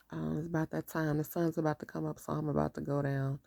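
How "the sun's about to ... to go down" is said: ordinary talk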